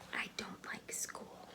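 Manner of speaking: slow, unvoiced whisper into her lap. A narrator's reading. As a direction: whisper it like a shy little girl. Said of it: "she whispered into her lap".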